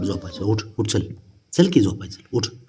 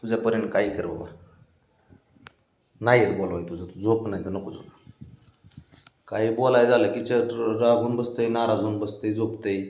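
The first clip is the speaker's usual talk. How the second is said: resigned muttering; 2 semitones lower, 8 dB quieter than usual. Real, not acted.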